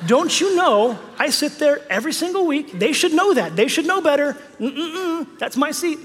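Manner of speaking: huffy, offended grumbling over a seat; indignant churchgoer. Pretend. Churchgoer mocking someone who took the seat, huffy. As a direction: play the petty pew owner, half laughing. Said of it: "you're like".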